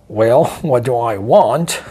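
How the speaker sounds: slow, mocking words broken by a laugh; taunting laugh. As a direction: chuckle at the question. Kidnapper taunting on phone.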